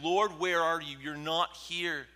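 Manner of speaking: loud, high cry to an absent Lord; desperate prayer. Acted. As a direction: call out, drawing the last words long.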